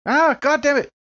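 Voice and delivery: sudden high exasperated curse; frustrated outburst. Real, not acted. Player fumbling the dice math, frustrated. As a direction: blurt it out in real frustration.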